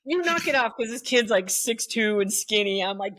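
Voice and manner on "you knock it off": high, loud teacher command; retold stern command; stern scolding. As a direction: bark it at a kid twice your height. Scolding a tall teen.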